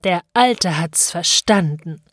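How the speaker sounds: slow, lightly hissed villain line; a hint of sinister hissing, drawn out; Coppelius zischend, lispelnd. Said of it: "so zischte und lispelte Coppelius". (leicht gezischt und gelispelt)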